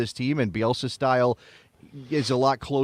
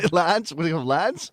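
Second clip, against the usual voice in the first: raised-pitch mock English accent; 4 semitones higher than usual. Shown as a demonstration. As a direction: try out an English manager's accent on the players. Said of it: "You have to do an English accent".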